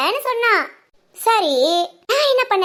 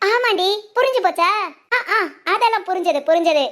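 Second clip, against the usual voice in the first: sly laughing agreement; laughing scheme. Acted. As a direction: laugh along with the plot. Scheming mother-in-law laughs.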